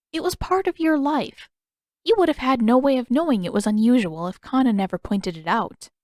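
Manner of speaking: lightly voiced elder, gentle and reassuring; kind Yugoda. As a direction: soothe her as a kind old woman.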